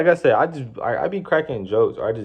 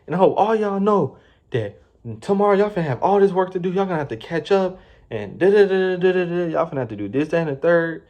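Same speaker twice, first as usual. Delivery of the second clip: high, fast, mocking yell; mock screaming manager; 8 semitones higher than usual. Manager yelling about tomorrow's workload, mocking high rant. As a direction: ham up the boss ranting about tomorrow's work. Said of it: "she starts screaming".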